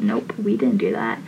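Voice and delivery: imitating a blurted denial, pitched far down; quick denial. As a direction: drop way down low and deny it fast. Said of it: "She just automatically went".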